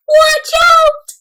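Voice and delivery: high, loud mock call of watch out; warning call. Dada warning Mina, high loud mock call. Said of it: "Dada shakes his head".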